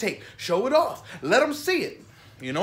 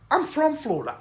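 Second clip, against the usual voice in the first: higher, put-on Florida good-old-boy accent; Florida dude voice; 9 semitones higher than usual. Shown as a demonstration. Vlogger showing how Florida dudes talk, Florida accent. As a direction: slip into a local Florida dude's accent. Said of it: "I know dudes who talk like this".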